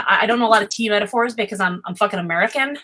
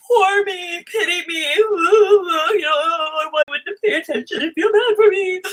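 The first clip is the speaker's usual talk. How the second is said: whiny mock voice, much higher, pleading for sympathy; self-pitying whine; 10 semitones higher, slower than usual. Mocking a pity-seeker she says she is not, high whiny wail. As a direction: wail it like a fake victim begging for pity.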